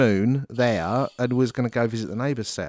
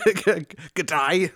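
mock Australian; 4 semitones higher, much slower than usual. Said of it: "To sound very Australian".

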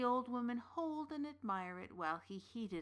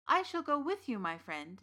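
tailor voice; 5 semitones higher, 6 dB louder than usual. Acted. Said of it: "the tailor agreed".

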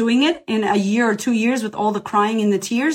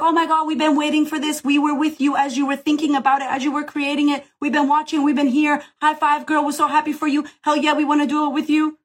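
higher, gushing cheerleading from the crowd; thrilled fans; 5 semitones higher than usual. Retold or imitated. Audience cheering the creator's launch, lifted and gushing. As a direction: cheer her on like a proud best friend. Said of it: "And your audience is like".

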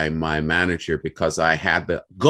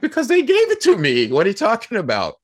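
high, incredulous self; defending himself, voice shooting up; indignant protest; 5 dB louder than usual. Retold or imitated. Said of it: "I'm like".

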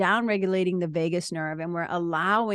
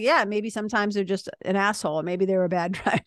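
joking with a laugh breaking in; laughing along; faster than usual. Retold or imitated. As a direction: laugh through the last word. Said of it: "it'll be like".

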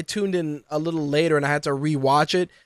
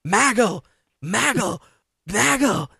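mock announcer's holler, pitched up; repeated higher calls with a falling end; JBL; 5 semitones higher, slower than usual. Host mimicking announcer yelling at his partner, mock holler. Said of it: "Just J B L yelling at Michael Cole".

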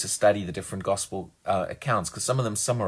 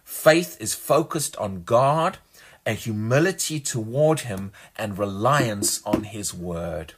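reading aloud. Shown as a demonstration. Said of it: "I'm gonna read that again".

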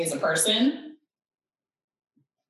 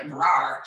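hungry growl; 5 semitones lower than usual. Acted. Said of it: "my hunger's like".

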